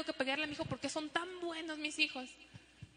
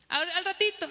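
higher, louder whiny stall; lazy stalling kid; 4 semitones higher, 5 dB louder than usual. Retold or imitated. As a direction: put mom off like a lazy kid. Child stalling mom. (niño flojo dando largas)

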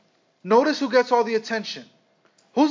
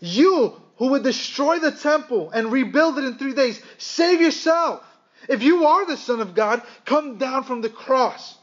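mild mock yell, pitched higher; retold yelled insults; 4 semitones higher than usual. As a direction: imitate a jeering crowd, only half yelling. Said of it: "were yelling insults at him".

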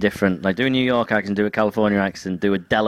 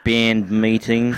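New Zealand accent; much slower than usual. Shown as a demonstration. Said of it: "Do a, a New Zealand accent".

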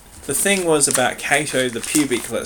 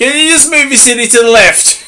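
mock polite request; 9 semitones higher, 9 dB louder than usual. Mocking Roman demand.

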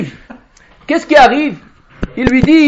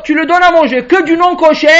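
ordinary talk, nothing marked

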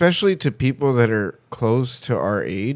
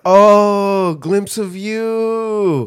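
1 mock realization; 8 semitones higher, 3 dB louder, much slower than usual. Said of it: "both of them like".

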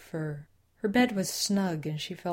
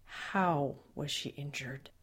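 forced out; 2 semitones lower, 5 dB quieter, slower than usual. Acted. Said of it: "forced the words out".

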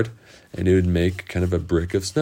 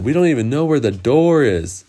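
put-on puzzled children; 6 semitones higher than usual. Children baffled by snowed-in house.

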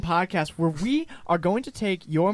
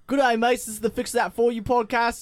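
Aussie greeting, a little higher; lightly pushed Australian podcast intro; put-on Aussie accent; 4 semitones higher than usual. Shown as a demonstration. Host retrying his intro, put-on Aussie accent. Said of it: "just talk in your normal voice".

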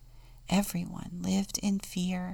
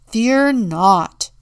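loud, higher rallying call; bold proclamation; 4 semitones higher, 13 dB louder than usual. A narrator's reading. Town leaders reassuring the Contessa, loudly proclaimed.

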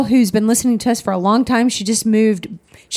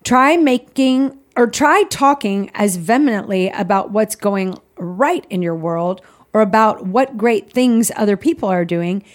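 reading aloud. Acted. Reads devotional aloud.

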